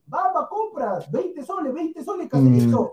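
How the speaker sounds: a hint of a market stall hawker calling out the price; street vendor call. Mocking his co-host's knock-off jersey, lightly calling like a market hawker. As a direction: cry the price like a vendor luring a customer. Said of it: "tú compras Bamba".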